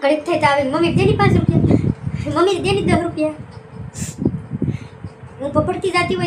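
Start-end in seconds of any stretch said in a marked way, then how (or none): 0.6-3.3 a hint of a pleading young son; imitating her son. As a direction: mimic the son's whiny ask, a bit higher and louder. Mother voices son asking money.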